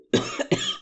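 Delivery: sudden cough from choking. Real, not acted. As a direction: cough as if something went down wrong. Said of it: "engasguei-me".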